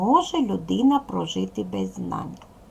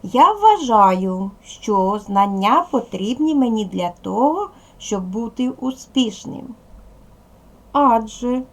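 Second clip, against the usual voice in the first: modelling an answer. Shown as a demonstration. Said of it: "Скажіть, будь ласка".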